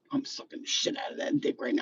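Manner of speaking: high breathy whisper, almost unvoiced; whispered aside. Confessing to viewers in a whisper. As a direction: whisper it like a secret. Aside while describing sex.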